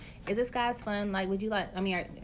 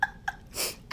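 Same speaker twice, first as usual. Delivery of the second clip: laughing; 13 semitones higher, 13 dB louder than usual. Real, not acted. Laughing at husband's heckle.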